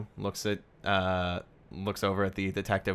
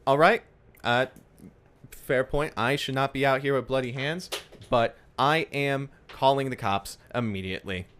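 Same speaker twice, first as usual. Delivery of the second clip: nurse conceding; 3 semitones higher than usual. Acted. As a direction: concede briskly, then firm. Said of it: "I think she's like".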